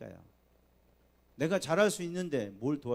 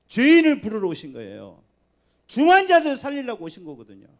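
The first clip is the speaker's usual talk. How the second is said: louder, higher climactic preaching; rising preaching; 7 semitones higher, 15 dB louder than usual. Acted. Pastor proclaiming good news to sinners, climactic preaching. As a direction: build to a fervent climax.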